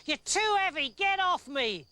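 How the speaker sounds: high, loud complaint; dreaming soldier shouting at a weight on him; indignant yell. Acted. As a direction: push them off, cross.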